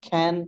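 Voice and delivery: "খ্যান" opened with breathy kh; aspirated C. Shown as a demonstration. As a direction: puff air on the first sound of "খ্যান". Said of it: "এভাবে বলতে হবে". ("খ্যান" মহাপ্রাণ খ দিয়ে)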